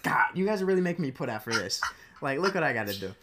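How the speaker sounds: hammed-up aggrieved grumbling; mock exasperation. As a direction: imitate a landlord making a fuss. Acting out the put-upon landlord.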